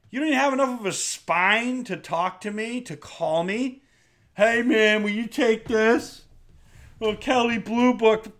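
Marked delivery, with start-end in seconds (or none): 4.3-8.3 higher, drawn-out mocking voice; put-on wheedling customer; mock haggling buyer. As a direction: imitate a spineless lowballer. Mimics lowballing buyer.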